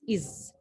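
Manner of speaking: "is" dropped low and soft as ɪz; the "is" sound. Shown as a demonstration. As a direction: model the ending "is" quietly as ɪz. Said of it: "pronounced like this".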